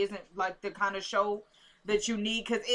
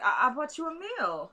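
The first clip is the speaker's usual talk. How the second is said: slightly raised, mildly giddy retelling; giddy imitation; 4 semitones higher than usual. Retelling Natalie bringing Lucien a meal, mildly giddy. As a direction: imitate her light giddiness. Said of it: "got really kinda giddy".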